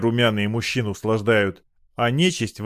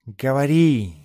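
stern command; 2 semitones higher, slower than usual. A narrator's reading. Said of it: "велел кот".

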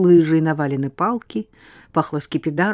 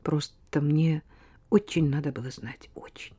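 mumbling quietly; 6 dB quieter than usual. Acted. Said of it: "пробормотала та".

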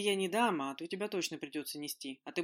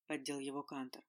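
ordinary delivery, nothing marked

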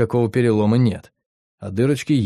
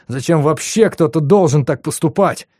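ordinary delivery

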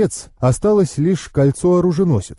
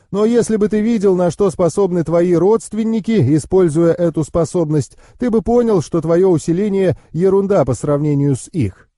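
higher-pitched knowing uncle; explaining uncle; 5 semitones higher than usual. Acted.

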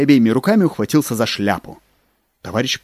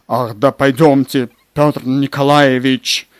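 louder, slow, impatient plea; 2 semitones higher, 5 dB louder, slower than usual. Acted. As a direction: urge him out the door. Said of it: "нетерпеливо".

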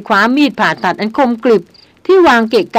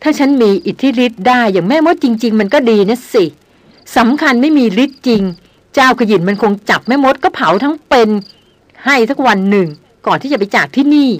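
sulky grumble. Acted. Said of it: "ค้อนตาคว่ำบ่นพำ".

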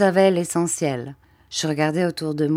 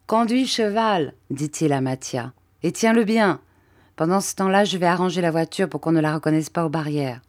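brisk instructions, the last part faster; lightly voiced Bob. Bob tells Mathia to drive while he disguises the cart, brisk.

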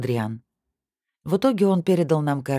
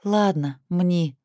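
mock grumpy; 5 semitones higher, much slower than usual. A narrator's reading. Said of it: "притворно недовольно согласилась я".

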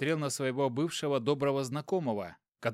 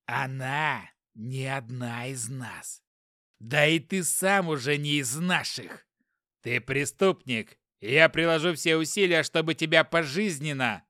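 menacing threat; 4 dB louder than usual. Acted. Inspector threatening, slow.

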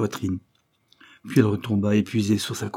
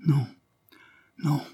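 sighed; 5 semitones higher than usual. A narrator's reading. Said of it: "soupira-t-il".

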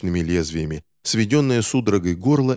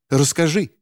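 higher, insistent demand; urgent demand; 7 semitones higher, 3 dB louder than usual. Acted. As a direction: push harder for an answer. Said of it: "потребовала женщина". (настойчивее, выше)

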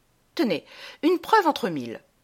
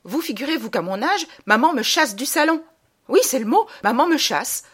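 raised, outraged protest with punchy stresses; indignant rage; 4 semitones higher, 4 dB louder than usual. Acted. Girl protesting being sent from the salon, indignant. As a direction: act out a girl's theatrical indignation. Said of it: "Je suis en rage".

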